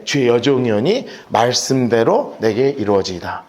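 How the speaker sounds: slow, low and hesitant, shrinking back; timid surrender. Acted. Preacher voicing Mary, timid and hesitant as she yields. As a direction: say it like a scolded child giving in. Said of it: "멈춤멈춤 하면서 했던".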